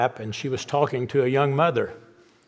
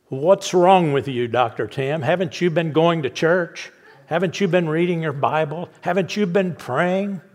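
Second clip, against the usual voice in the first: incredulous; 4 semitones higher, 4 dB louder than usual. Retold or imitated. Edith scolds the sad doctor.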